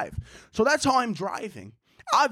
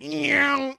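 imitated angry engine zoom; 6 semitones higher than usual. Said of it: "He got so angry".

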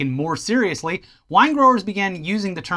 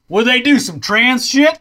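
redneck American voice; 5 semitones higher, 4 dB louder than usual. Retold or imitated. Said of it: "an American walked by and was like".

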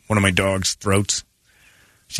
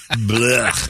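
disgusted by taste. Real, not acted.

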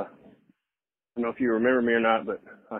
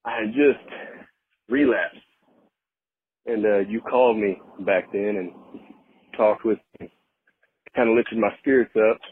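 breathless, talking between breaths; a little winded from work. Real, not acted. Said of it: "I'm sorry I'm out of breath".

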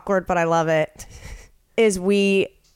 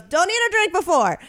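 chirpy receptionist; 8 semitones higher than usual. Retold or imitated. Receptionist instructs.

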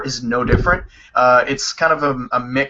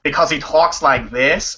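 Boston accent; 3 dB louder than usual. Shown as a demonstration. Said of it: "and you know this".

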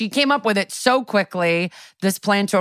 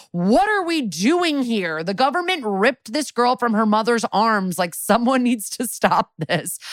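hammed-up proclamation, pitched up without shouting; mock courtroom outburst; 4 semitones higher than usual. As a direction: imitate an indignant plea to the whole court. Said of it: "full out of order outburst".

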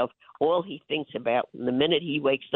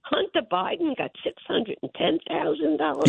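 high, outraged run through the figures; indignant listing; 11 semitones higher than usual. Real, not acted. Mother listing Biden payments to radio listeners, high and outraged. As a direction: spit out each amount like an accusation.

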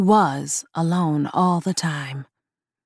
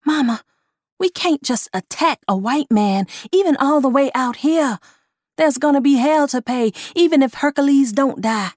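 high, urgent pleading; fearful pleading; 7 semitones higher than usual. Acted. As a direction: plead with rising fear, high. Honeysuckle pleads in fear.

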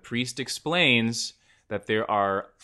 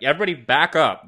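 shouting; 5 semitones higher, 7 dB louder, faster than usual. Retold or imitated. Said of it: "He's like".

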